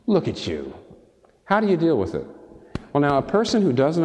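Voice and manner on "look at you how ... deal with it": accusing conscience. Acted.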